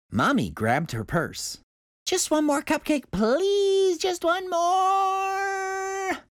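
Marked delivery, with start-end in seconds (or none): 2.1-6.2 pleading yell. A narrator's reading. Girl yelling to Mommy at the door, pleading. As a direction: yell the plea on the way out. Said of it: "I yelled".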